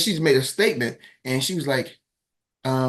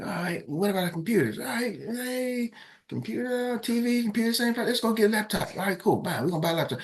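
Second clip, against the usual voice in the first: much higher, stretched, playful voice; mock excited self; 9 semitones higher, 4 dB quieter than usual. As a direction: play up your own eager idea. Himself retold, high put-on voice.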